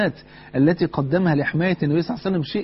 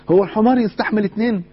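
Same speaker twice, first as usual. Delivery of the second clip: raised, louder scolding question; loud, indignant onlooker; indignant shout; 6 semitones higher, 5 dB louder than usual. Acted. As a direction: call them out for overloading the donkey. Onlookers scolding Juha and son.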